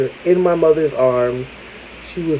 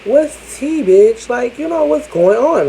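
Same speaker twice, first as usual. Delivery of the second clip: higher-pitched, hammed-up ghetto friend voice; 5 semitones higher, slower than usual. Ghetto friend calls to question the new accent, imitated, hammed-up. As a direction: imitate a slangy, puzzled friend. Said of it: "one of my ghetto friends was like".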